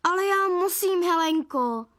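high, plaintive whine; wailing. A narrator's reading. Father begging mother to let him eat, wailing. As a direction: plead in a high wail. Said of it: "zakvílel táta".

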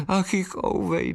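high wailing bird voice; lamenting little bride. Acted. Bride swallow laments her guests fled, high wail. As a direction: wail it like a small upset bride. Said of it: "naříkala nevěstinka".

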